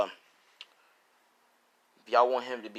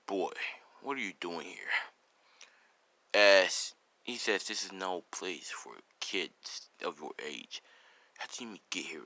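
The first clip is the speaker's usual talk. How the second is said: lightly voiced stern stranger, soft and low; a hint of a stern adult, quietly questioning; stern hidden figure; 4 semitones lower, 4 dB quieter than usual. Hidden figure questions a young boy at the door, quietly stern.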